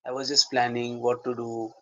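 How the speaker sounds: hesitant explaining to a partner; dialogue with co-actor. Shown as a demonstration. Actor telling co-actor he was only self-talking, dialogue. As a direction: explain yourself haltingly, with pauses. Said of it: "Shift to the co-actor".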